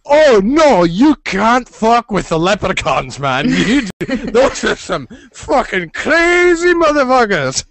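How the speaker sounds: high, slow, wide-eyed warning through laughs; mock fairy warning. Fairies warn the hero off the leprechauns, high slow mock alarm. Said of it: "and they're like".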